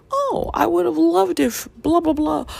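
high, loud mock gush; gushing wish. A fan gushing about a dream adaptation, mock high voice. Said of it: "never hear anybody be like".

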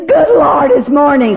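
mock groan at waking up; groggy complaint. Retreat speaker mimics someone dreading the morning. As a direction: dread the morning, half laughing. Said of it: "And others get up and say".

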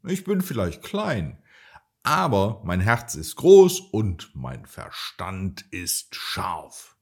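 brave call. Acted. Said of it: "rief Tinto mutig".

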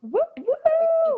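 high, loud celebratory whoops; cheering woo. Real, not acted. Partner cheering the champagne toast, loud whoops.

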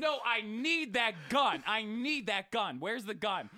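mock kid begging for the gun; insistent kid. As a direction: drag it out like a stubborn four-year-old.

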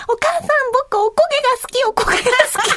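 mother imitating her young son, high and cute; cute little boy voice. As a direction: imitate a small son asking sweetly. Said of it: "息子が可愛い声で".

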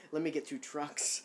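playful mock German accent; joking German accent between laughs. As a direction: echo it in a badly faked German accent. Parodies the line back, laughing.

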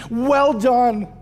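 a yearning "Well done." from the pulpit; longing, lifted "Well done.". Retold or imitated. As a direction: reach up with feeling for "Well done.". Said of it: "I wanna hear him tell me".

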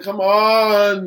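mock exasperation. Real, not acted. Speaker on talented sister who studied pre-med, mock exasperation. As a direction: stretch it out in affectionate frustration. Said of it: "it just makes me so mad".

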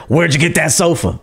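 mock-rude, abrupt question; rude demand. Rude viewer demanding an answer, mildly mocking. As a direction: mimic a blunt commenter. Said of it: "you guys are very rude".

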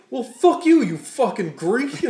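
high, very loud hammed-up yell breaking into a laugh; mock road-rage scream; mock shouted insult. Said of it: "He's like".

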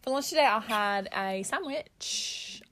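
an unsure stab at Australian; attempted Australian accent. Shown as a demonstration. Retrying after the laughter, uncertain Australian accent.

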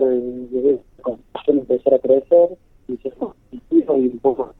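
breaking up over a bad phone connection; choppy phone line. Real, not acted. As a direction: voice dropping in and out on the line. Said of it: "se entrecorta la comunicación".

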